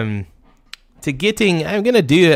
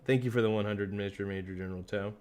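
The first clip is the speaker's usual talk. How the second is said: ordinary delivery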